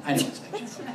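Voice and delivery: "I know it's fiction" said again with a laugh; laughing repeat. Real, not acted. Admitting to the group the movie is fiction, laughing. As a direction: chuckle through the admission.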